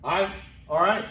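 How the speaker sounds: squashed "I", then clearly spoken "all right"; shorthand then full form. Shown as a demonstration. Teacher contrasting short and full sign-off, shorthand then articulated. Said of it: "we can shorten things".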